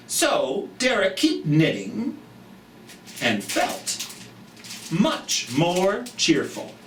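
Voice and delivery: storybook read-aloud for little ones; reading to children. Acted. Reads picture book aloud.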